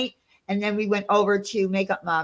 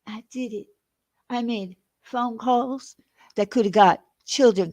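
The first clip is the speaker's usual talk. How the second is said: Missus Butterworth impression. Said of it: "imitating Oni doing his Missus Butterworth accent".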